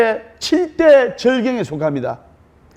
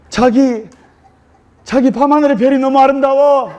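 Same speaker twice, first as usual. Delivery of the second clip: higher, cooing Seoul-dialect voice; sweet Seoul bride; 5 semitones higher than usual. Retold or imitated. Seoul bride gazing at the stars with her husband, cooing. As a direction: coo it like a romantic bride. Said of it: "서울 신부가".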